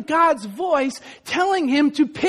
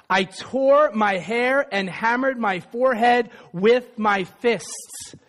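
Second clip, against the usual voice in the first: measured reading of Augustine's words; reading scripture aloud; 7 semitones lower than usual. Acted. Preacher reading Augustine's confession to the congregation, measured. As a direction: read it to the congregation, steady.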